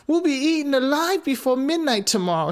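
put-on high, frightened girl's voice; whimpering little girl. A narrator's reading. Gretel to Hansel, high and whimpering. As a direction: whimper it like a scared child. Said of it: "she whimpered".

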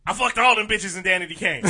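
mock scream. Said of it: "he just screamed out".

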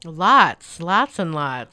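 low husky voice from a cold; husky, low and hoarse; sexy voice. Real, not acted. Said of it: "I'm gonna call it my sexy voice".

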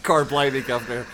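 mock Cockney accent; lightly put-on, hammy Cockney; Dick Van Dyke. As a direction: do a quick, bad Cockney imitation. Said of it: "all I could hear was Dick Van Dyke".

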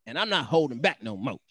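sassy, put-on mad girl; Montana, angry woman. Reading the wife's post as an angry woman. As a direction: give it heated, sassy attitude. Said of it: "that's my angry woman".

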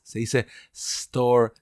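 store slow, with a clean s and no e before it; correct store. Shown as a demonstration. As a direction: store started right on the s.

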